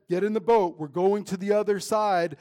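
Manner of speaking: Jesus calling his crew aboard, loud and firm; firm command. Acted. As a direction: order them into the boat. Jesus commanding disciples into boat.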